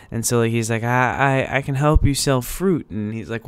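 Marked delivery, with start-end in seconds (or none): 0.8-2.9 imitated Hispanic accent, a little raised; put-on Hispanic accent, making an offer; thick Hispanic accent. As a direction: mimic a helpful character with a Hispanic accent. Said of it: "really thick Hispanic accent".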